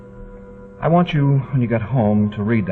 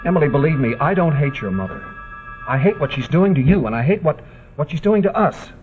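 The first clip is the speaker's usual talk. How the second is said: higher, urgent insistence; earnest pleading; 5 semitones higher than usual. Acted. Husband begging Emily to believe him about her mother, pleading. Man pleads with his wife.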